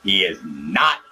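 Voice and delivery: agitated disguised villain voice; Emperor caller rant. Acted.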